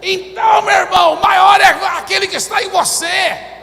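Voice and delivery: shouted high sermon climax; fiery preacher shouting to the congregation; full-force preaching. Acted. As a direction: preach it to the rafters.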